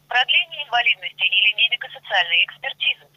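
phone menu voice. Acted. Virtual assistant lists menu options.

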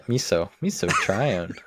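"miso, miso trione" said slowly, with a pause after "miso"; split pronunciation. Shown as a demonstration. Host owning up to saying it in two parts, slowly. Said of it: "like, miso".

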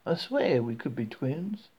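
slow, drawn-out Southern swear; a hint of Southern drawl; friendly Southern accent. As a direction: lean into the likeness with a Southern lilt. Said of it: "speaking in a friendly southern accent".

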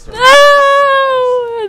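loud high shout. Real, not acted. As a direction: yell no in protest. Protests the podcast being watched.

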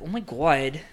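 "God" with a rounded New Jersey vowel, like "gwawd"; New Jersey accent. Shown as a demonstration. Trying the New Jersey accent of home, reluctantly. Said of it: "a New Jersey accent".

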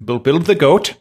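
mock Swedish accent; sing-song Swedish lilt. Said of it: "I wanna hear more of that Swedish accent".

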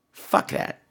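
a breathy aside to yourself; whispered repeat. Real, not acted. Host repeating his dismissal to himself, whispered.

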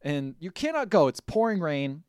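Larry chasing Sarah in the rain, mock commanding; mock forceful command. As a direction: play the controlling boyfriend forbidding her to leave.

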